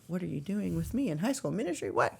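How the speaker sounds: incredulous question, pitch swooping up and down; mock incredulity. Mock question about youth ministry role.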